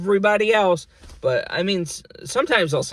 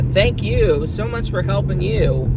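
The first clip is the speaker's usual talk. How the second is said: imagined thank you; 5 semitones higher, 4 dB louder, slower than usual. Retold or imitated. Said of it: "instead of a".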